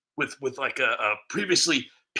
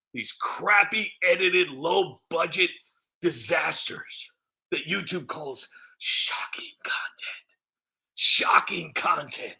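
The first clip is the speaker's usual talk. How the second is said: mock tearful whisper; slower than usual. Mock-tragic self-deprecation.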